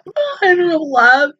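talking through tears; tearful. Real, not acted. Viewer describing the girl hiding her face, tearful. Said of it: "I'm about to tear up over this".

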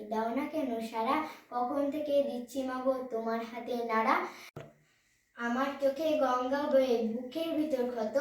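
measured verse recital, lines lifted at the ends; poem recitation. Acted. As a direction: recite the poem to an audience, phrase by phrase. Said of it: "আমি একটি কবিতা আবৃত্তি করে শোনাবো".

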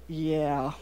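low, softened, restrained yeah; noncommittal reply. Retold or imitated. Mom answering daughter about a cute boy, restrained. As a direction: imitate a mom keeping her reaction in. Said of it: "I just go".

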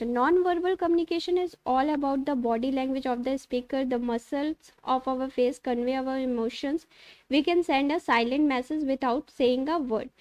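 slow, careful reading of notes; slowly dictating textbook lines; reading aloud. Acted. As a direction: read it out word by word, slowly. Reads English slide text.

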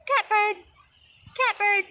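high, loud catbird call. Shown as a demonstration. Teacher shows kids how to call out the bird, loud. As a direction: chant it out for the kids. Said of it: "you're gonna go".

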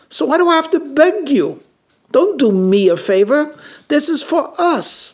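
hurt wife pushing back, pitch jumping; upset wife. Retold or imitated. Wife's upset reply to husband.

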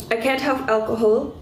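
ordinary talk, nothing marked

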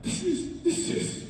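high and rising to a loud exclamation; imitating an overwhelmed producer; amazed raving. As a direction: rave in awe, building from hushed to loud. Retold producer overwhelmed by the record.

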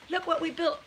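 ordinary talk

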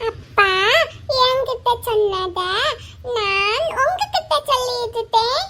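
a lightly voiced little child, slow and giggly; small child's voice. A toddler carefully tells his father the message, slow and giggling. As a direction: say it slowly like a toddler reciting a message.

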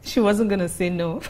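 loud, high, laughing scoff; loud amused disbelief, breaking into laughter; mocking amusement. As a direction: crack up at the very idea of marriage. Laughs mockingly about marriage.

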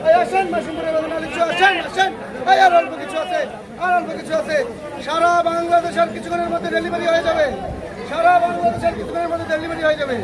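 market hawker calling out; street vendor. Real, not acted. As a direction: pitch the lychees to passing buyers.

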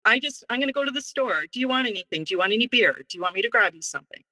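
lightly put-on innocent helper voice; mock innocent. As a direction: sweeten it up, playing innocent to lure him. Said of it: "here's where I'm being manipulative".

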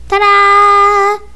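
ta-da. Acted. Magic reveal.

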